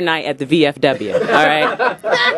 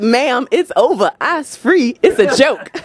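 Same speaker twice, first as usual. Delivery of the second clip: exasperated; 5 semitones higher, slower than usual. Retold or imitated. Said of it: "I said".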